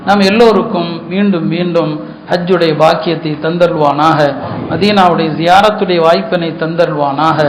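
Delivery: low, measured supplication winding down; closing prayer. Real, not acted.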